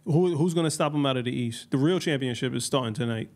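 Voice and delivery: sports announcer hype; commentator voice. Real, not acted. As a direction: call it like a broadcaster. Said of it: "You sound like a commentator".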